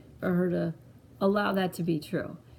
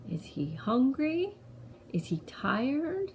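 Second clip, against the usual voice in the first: slow questions with a high rise at the end; drawn-out, lilting parent questions; coaxing questions; 6 semitones higher, 3 dB quieter, slower than usual. Retold or imitated. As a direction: gently offer each guess to a small child. Mother guesses the monster's needs with child.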